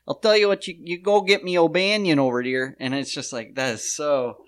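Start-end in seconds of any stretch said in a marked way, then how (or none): 0.1-2.7 a hint of an old Chicago tough-guy voice, pitched up; lightly imitated twenties mobster; mild mock Chicago gangster. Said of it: "the voice doesn't fit".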